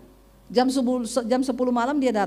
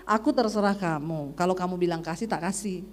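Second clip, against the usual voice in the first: lightly voiced husband, lower and softer; a hint of a resigned husband; 5 semitones lower, 4 dB quieter than usual. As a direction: hand the decision over quietly. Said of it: "suami saya bilang".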